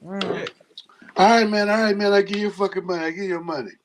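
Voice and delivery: high, rushed begging to call off the dog; panicked pleading. Retold or imitated. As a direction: beg for mercy, voice jumping up. Dude begging dog owner, retold.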